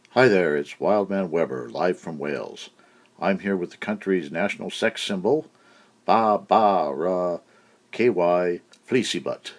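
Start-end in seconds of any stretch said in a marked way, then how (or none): 6.0-9.5 slow bleating sheep name; drawn-out baa like a sheep. Acted. Host introduces the sheep as a mock bleat.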